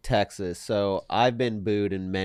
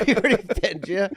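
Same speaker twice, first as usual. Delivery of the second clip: high put-on repeat; high mock quote; 9 semitones higher, 3 dB louder, faster than usual. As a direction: echo it in a high voice. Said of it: "is crazy".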